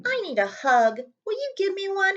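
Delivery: lightly voiced small hedgehog pleading for a hug; a hint of a timid little hedgehog asking. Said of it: "he asked".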